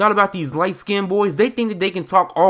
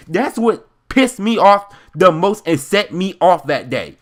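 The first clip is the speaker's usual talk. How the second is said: animated storytime rant. Real, not acted. Building anger retelling the incident.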